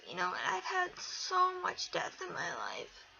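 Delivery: whispered, voice breaking with grief; barely holding it together, whispering; tearful whisper. Real, not acted. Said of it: "I'm sorry, guys".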